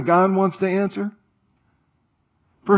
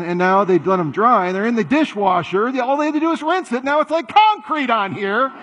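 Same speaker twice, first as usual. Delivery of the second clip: fuming complaint climbing higher and higher; exasperated rant; 3 semitones higher than usual. Acted. Person stewing all day about dirty dishes, exasperation building. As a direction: start level, build to a high-pitched, worked-up gripe.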